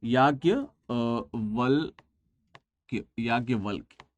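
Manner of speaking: याज्ञवल्क्य drawn out syllable by syllable, slow and low; teacher slowly sounds out याज्ञवल्क्य letter by letter; slow spelling out. Shown as a demonstration. Teacher spells याज्ञवल्क्य slowly for students, dragging each syllable. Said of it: "कैसे लिखते हैं ना".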